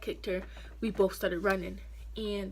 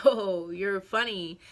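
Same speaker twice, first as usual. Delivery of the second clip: sarcastic drawl; 6 dB louder, much slower than usual. Retold or imitated. Sarcastic reply after laughing.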